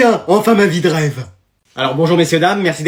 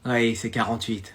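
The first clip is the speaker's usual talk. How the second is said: réponse télépathique; 7 semitones lower, 12 dB quieter than usual. Acted.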